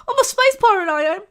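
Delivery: put-on high, loud rough street thug accent; mock rough street accent. Mocking the actress to her co-host, rough street accent. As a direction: echo the line in a cheap rough street accent. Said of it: "Sorry for the bad accents, but that's how she kinda sounds".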